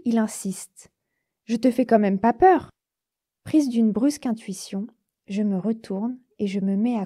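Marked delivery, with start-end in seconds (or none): 1.4-2.7 insistent driver. Acted. Driver insists, girl backs off.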